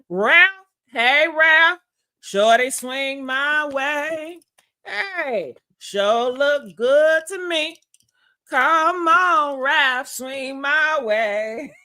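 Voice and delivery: drawn-out flirty sing-song call. Pretend. Teasing her viewers by calling out to Ralph. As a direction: croon it at him like a come-on.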